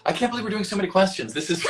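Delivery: fast, high disbelieving shout; exasperated outburst. Real, not acted. Streamer overwhelmed by the pile of fan questions, high disbelieving shout. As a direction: blurt it out, overwhelmed.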